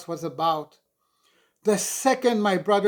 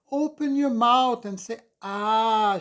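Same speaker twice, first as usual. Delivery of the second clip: bossy little nurse; 7 semitones higher, 5 dB louder than usual. Acted. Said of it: "she instructed four-year-old me".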